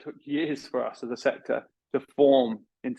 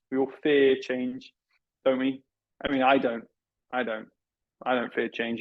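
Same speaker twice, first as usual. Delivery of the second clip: sarcastic condescending. Acted. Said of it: "it's pretty condescending stuff".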